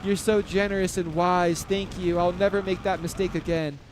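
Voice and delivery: mock grateful player. Commentator imagining a player thanking him, mildly hammed-up gratitude. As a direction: fawn over the commentator with a touch of sarcasm. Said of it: "he'll be like".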